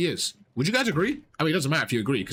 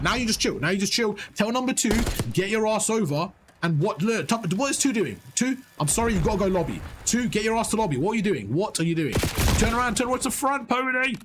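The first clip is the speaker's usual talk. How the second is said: yelling callouts; 5 semitones higher than usual. Real, not acted. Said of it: "I was yelling at you".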